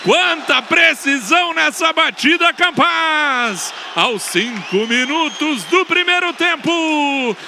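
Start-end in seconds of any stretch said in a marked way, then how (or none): 0.0-3.7 explosive goal commentary. Real, not acted. Praising the scorer after goal.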